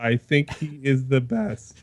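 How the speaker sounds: voice cracking. Thanking someone for having them on the show: voice cracking. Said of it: "your voice cracked".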